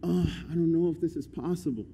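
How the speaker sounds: soft, unsure murmur; imitating a hesitant doubter; voicing doubt. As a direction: say it quietly, doubting. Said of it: "if our sentences change from".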